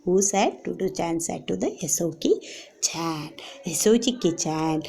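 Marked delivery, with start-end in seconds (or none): 0.6-3.3 whispered answer. Real, not acted. Quiet answer to own question.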